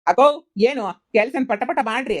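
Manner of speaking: calling out. Acted. Calling out to workers.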